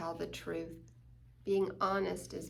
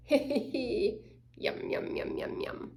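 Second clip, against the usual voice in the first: greedy munching; slower than usual. Acted. Greedy eating cookies, acted.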